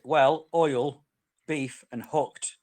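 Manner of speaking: "Well, oil, beef, and hooked" as separate words with pauses; Irish-accent phrase word by word. Shown as a demonstration. Teaching friends the Irish accent joke, word by word. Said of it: "in an Irish accent".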